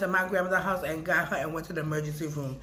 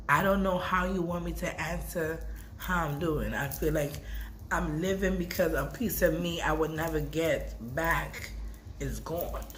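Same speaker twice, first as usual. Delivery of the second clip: ordinary talk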